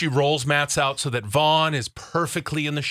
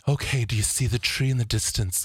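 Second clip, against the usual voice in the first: mock guided imagery; 2 semitones lower, 3 dB quieter than usual. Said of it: "she's doing this guided imagery".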